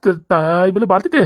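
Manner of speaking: slow, drawn-out disbelieving question; incredulous protest. Acted. Husband objects to the bucket, incredulous protest. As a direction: stretch the question out in dismay.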